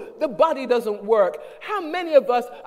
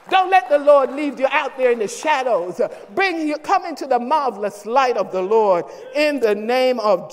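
rising pulpit plea, louder as it goes; pleading sermon; 3 dB louder than usual. Acted. Pastor pleading with absent members, building preaching. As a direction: plead with the congregation to come back.

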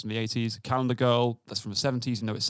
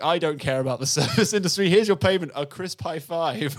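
slightly louder, smug and dismissive; smug jerk; 3 semitones higher, 4 dB louder than usual. Retold or imitated. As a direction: brush the cabbie off with a grin. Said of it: "where he's like".

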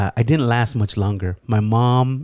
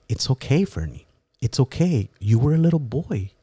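mock consoling. Uncle consoles, hand on shoulder.

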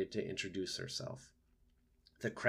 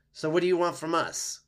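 loud, raised-pitch challenge; growling fox; 8 semitones higher, 8 dB louder than usual. A narrator's reading. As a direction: demand it as a suspicious fox. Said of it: "growled Fink".

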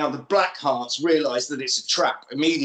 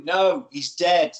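slow menacing; slower than usual. Acted. Pam's menacing reply.

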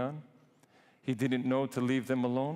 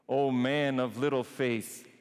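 O man of little faith said as a firm, louder reproach; stern rebuke; 3 dB louder than usual. Acted. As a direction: scold him plainly for his doubt. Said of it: "Or did you say to him".

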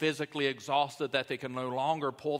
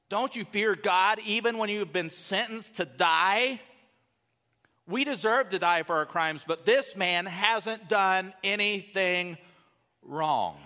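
louder, higher-pitched indignant protest; protesting rebuke; 7 semitones higher, 5 dB louder than usual. Acted. Other criminal rebukes the one shouting at Jesus, raised protesting voice. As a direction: rebuke him forcefully, leaning on key words. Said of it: "the other criminal protested".

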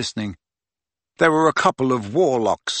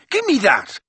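put-on a touch higher boyish voice; lightly voiced teenage boy; Ron voice; 9 semitones higher than usual. A narrator's reading.

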